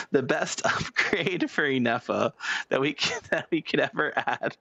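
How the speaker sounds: words broken by real giggles; can't get it out for laughing; laughing through words. Real, not acted. Pitching an absurd upgrade to chat, giggling. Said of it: "I don't know why I keep laughing".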